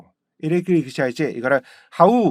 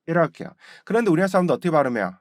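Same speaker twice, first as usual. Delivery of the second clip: ordinary talk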